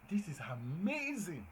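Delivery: slow, drawn-out delight; exclamatory. Shown as a demonstration. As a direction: savour how amazing it is.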